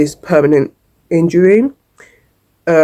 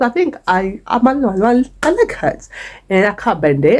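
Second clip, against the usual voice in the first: 1 small hurt voice; 3 semitones higher than usual. Retold or imitated. Retold telling nurse about leg.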